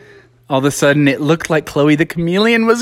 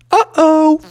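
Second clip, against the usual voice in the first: higher, comic dawning dread; cartoon uh-oh; 8 semitones higher, 4 dB louder than usual. Smee noticing the mop is gone, cartoonish dismay. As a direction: say it like a cartoon before the drop. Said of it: "looking down like a Bugs Bunny cartoon".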